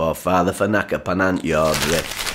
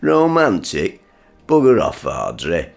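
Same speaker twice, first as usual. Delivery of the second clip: scornful disbelief. Acted. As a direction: scoff incredulously and dismiss it. Father scoffs at wife again.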